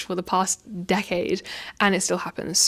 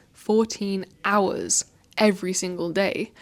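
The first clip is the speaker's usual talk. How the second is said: slow, deliberate words; slowing down to stress the fact; slower than usual. Shown as a demonstration. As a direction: draw out each word to make it stick. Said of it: "the fact that I slowed that bit down".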